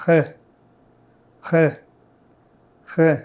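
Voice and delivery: h as a French throat r with friction; uvular r. Shown as a demonstration. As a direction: switch to the uvular r. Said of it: "Now switch to R".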